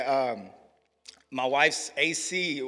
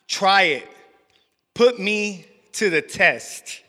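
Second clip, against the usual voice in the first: scripture reading. Acted. Pastor reading Malachi to the congregation, slow and building. Reads scripture aloud in testimony.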